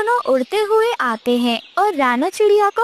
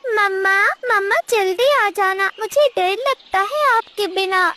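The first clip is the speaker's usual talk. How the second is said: higher, timid little chick; small child voice; 4 semitones higher than usual. Acted. Chick begs mother to come back soon, higher child voice.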